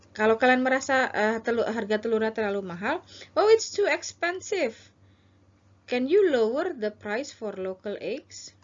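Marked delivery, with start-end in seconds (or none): 3.3-8.5 slow, a touch of mock dismay at the price; customer role. Shown as a demonstration. Teacher as shopper haggling over egg prices, mock dismay. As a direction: lightly act the shocked shopper. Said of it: "ini adalah Anda".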